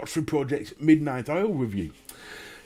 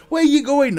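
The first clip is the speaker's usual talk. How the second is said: much higher, louder nosy question; mock questioning voice; 10 semitones higher, 8 dB louder than usual. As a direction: play the curious neighbour. Acted border dialogue.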